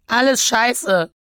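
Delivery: high, loud, drawn-out wail; tearful outburst. Acted. Elektra to her sister on the phone, tearful outburst. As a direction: wail it out in misery. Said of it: "Die Tränen schossen mir nur so aus den Augen".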